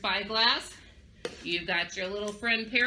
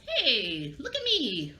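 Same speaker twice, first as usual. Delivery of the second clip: calling for attention; much slower than usual. Shown as a demonstration.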